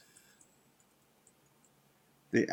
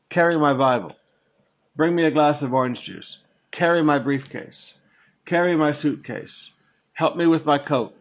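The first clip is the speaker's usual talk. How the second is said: louder, demanding orders like a pompous preacher; bossy preacher; 5 dB louder than usual. Retold or imitated. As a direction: boss the congregation around, louder. Preachers ordering people around.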